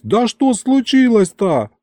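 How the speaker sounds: high, drawn-out alarmed question; acted fright, pitched high; thoroughly frightened. A narrator's reading. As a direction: demand an answer in rising panic. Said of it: "уже совсем перепугавшись".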